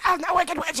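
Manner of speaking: hammed-up witch; witch announcing herself. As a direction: proclaim it like a storybook villain. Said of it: "And she's like".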